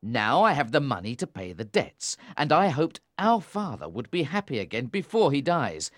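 stern anger. A narrator's reading. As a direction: press her hard, growing fierce. Tom's ultimatum builds.

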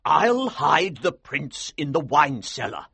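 slow, high, emphatic excitement; excited, stressing each step. A narrator's reading. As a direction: colonel eagerly laying out his plan. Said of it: "he said excitedly".

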